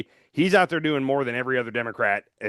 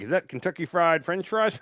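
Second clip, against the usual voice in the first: imitating Schumer; 4 semitones higher than usual. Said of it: "he turns to, uh, Klobuchar and he's like".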